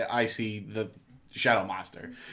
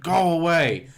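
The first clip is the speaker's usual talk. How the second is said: higher-pitched acted command; mock command, raised in pitch; retold firm command; 7 semitones higher, 4 dB louder, slower than usual. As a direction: order it away in a retold dream. Retold standing up to clown.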